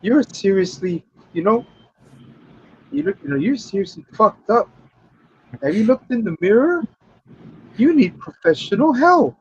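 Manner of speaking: high-pitched mock disbelief; halting, high-voiced imitation of dismay; acted incredulous telling-off. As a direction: tell him off in a high voice, with pauses. Acts Fun Boy telling off the crow.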